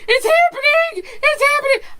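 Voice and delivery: very high, loud, triumphant yell; excited shout. Retold or imitated. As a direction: yell it out in pure hype. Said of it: "I was like".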